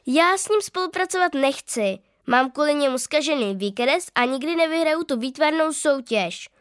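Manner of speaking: put-on high, stubborn angry child; angry declaration. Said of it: "prohlásila jsem naštvaně".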